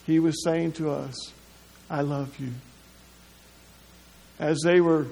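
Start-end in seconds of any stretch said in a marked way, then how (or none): 1.9-2.5 tender whisper-soft. Acted. Jesus voiced on the cross.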